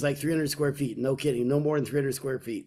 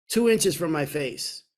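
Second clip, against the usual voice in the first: ordinary talk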